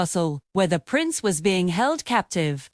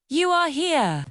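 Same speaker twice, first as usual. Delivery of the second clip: mild relief, pitched higher; full of relief; 5 semitones higher than usual. A narrator's reading. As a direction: let gentle relief lift the words. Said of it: "his voice full of relief".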